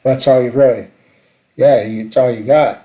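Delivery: usual speaking voice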